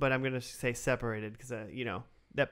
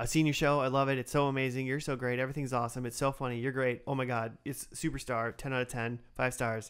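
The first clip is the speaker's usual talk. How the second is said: plain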